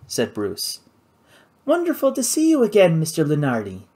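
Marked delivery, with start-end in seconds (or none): 1.6-3.8 bright, higher gracious greeting; perfect hostess. Acted. Kate greeting Bruce in the tree, gracious hostess charm. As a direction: switch on polished hostess charm. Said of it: "suddenly the perfect hostess".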